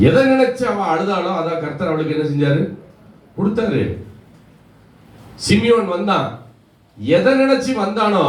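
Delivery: preacher driving the point home; impassioned preaching. Real, not acted. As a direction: press each question home in a high preaching voice. Preacher retells with raised intensity.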